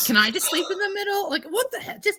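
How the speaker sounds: high-pitched, put-on whiny plea; mock pleading request. Podcaster imitating Jerry asking to sleep in the middle, mock plea. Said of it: "He's like".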